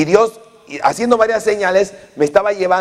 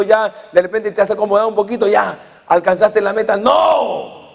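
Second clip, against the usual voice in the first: emphatic preaching shout; 3 semitones higher than usual. Real, not acted. Preacher rebukes complacency.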